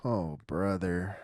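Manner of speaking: slow drawn-out oh brother; weary drawn groan; exasperated groan. Real, not acted. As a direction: sag into it, fed up. Groaning at the game.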